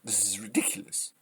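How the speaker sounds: hushed, low disbelief; exasperated whisper. Real, not acted. Commentator after yelling at politicians, exasperated whisper. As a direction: drop to a spent whisper.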